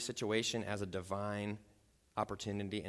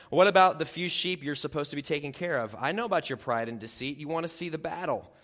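a louder, sharp demand; demanding older brother; 4 semitones higher, 6 dB louder than usual. Acted. Older brother Eliab demanding why David is here, angry and louder. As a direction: bark it like an annoyed older brother. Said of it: "he was angry".

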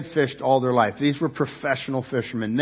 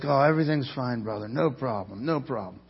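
soft, easy reassurance, a touch of it; calming voice; 3 semitones lower, 5 dB quieter than usual. Retold or imitated. Guide Daniel calming frightened guests, gently reassuring. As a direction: lightly imitate a calm guide soothing scared visitors. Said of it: "he's trying to calm us down".

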